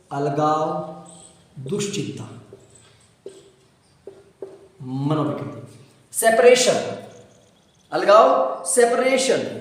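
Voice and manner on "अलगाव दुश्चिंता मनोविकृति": slow dictation. Shown as a demonstration. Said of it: "teacher dictates term word by word".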